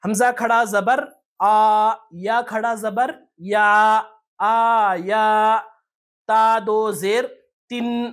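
slow syllable-by-syllable chanting of letters and vowels; name each letter and mark, then sound it slowly; spelling-out recitation. Shown as a demonstration. Teacher spelling for learners' ease, slow hijje recitation. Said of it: "ہم تھوڑا ہجے بھی کر لیتے ہیں".

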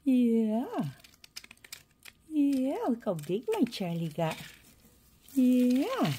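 loud sing-song pet talk. Real, not acted. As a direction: coo proudly to the pet. Cooing to pet.

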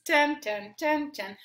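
light sing-song dance beats; dancing ten ten. Shown as a demonstration. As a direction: tap out the ten ten like little dance steps. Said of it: "And you dance".

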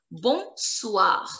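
Bonsoir with the last R pronounced; final R sounded. Shown as a demonstration. French teacher shows the ending rule, Bonsoir with sounded R. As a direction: say Bonsoir, keeping its final R audible. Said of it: "you have to pronounce the last letter".

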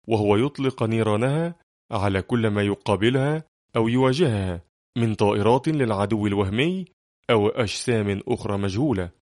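ordinary delivery, nothing marked

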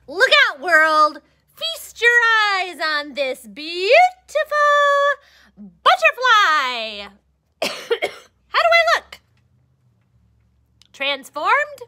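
high, loud showy announcement; grand boast. Acted. Caterpillar proudly shows off to the world. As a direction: present yourself like a star.

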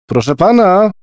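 put-on high, loud call of an impatient boy; a boy shouting for the old man. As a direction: call out through the flat, impatient. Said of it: "krzyknął zniecierpliwiony".

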